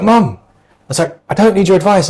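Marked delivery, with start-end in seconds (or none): 0.0-0.4 high, louder mock protest at mum; half-acted telling-off, pitched up and louder; retelling snapping at his mum, mock-exasperated; exasperated mock outburst. 1.3-2.1 high, louder mock protest at mum; half-acted telling-off, pitched up and louder; retelling snapping at his mum, mock-exasperated; exasperated mock outburst.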